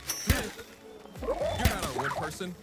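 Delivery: high, loud suspicious guard; gravelly sly hobgoblin. Acted. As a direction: sneer through the slat. Guard through door slat.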